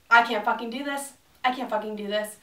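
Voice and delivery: a mild burst of snapped frustration; imitating herself losing it; retold snapping. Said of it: "I fucking snapped".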